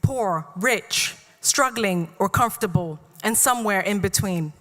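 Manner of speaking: measured spoken-word delivery, phrase by phrase; deliberate poetry reading with falling line ends; poem recitation. Real, not acted. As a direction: recite it to a room, pausing between lines. Reads own poem aloud.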